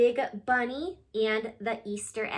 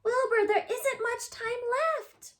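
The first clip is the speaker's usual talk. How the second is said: shout; 12 semitones higher than usual. Acted. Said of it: "shouted Francine".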